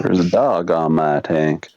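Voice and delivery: put-on Australian drawl, low and slow; hammed-up Aussie, slow and low; bad Australian accent. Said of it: "worst Australian accent I've ever heard".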